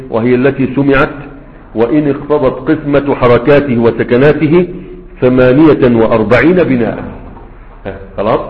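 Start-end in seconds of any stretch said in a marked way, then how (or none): 0.1-7.0 quoting the book as a formal reading; قراءة نص المتن. Shown as a demonstration. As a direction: read the source text aloud, a bit louder, rising in volume. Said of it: "قال إيه؟". (قراءة المتن بصوت أعلى)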